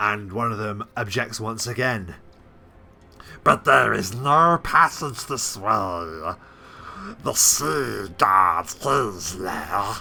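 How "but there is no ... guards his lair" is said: kobold creature voice, very slow and stretched out. A game narrator voices a kobold objecting to its leader, in a kobold voice. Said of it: "doing the kobold voice".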